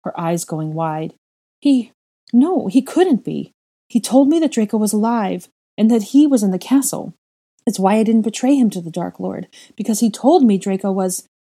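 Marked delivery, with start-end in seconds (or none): 1.6-11.3 higher, louder, breathless rush; frantic denial. Acted. Mother refusing to believe her son is dead, frantic. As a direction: clutch at hope, panicking.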